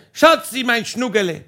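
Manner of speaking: playful holler to his wife below; calling across the garden. Retold or imitated. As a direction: sing out the pet names across a distance. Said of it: "Und ich hab geschrien".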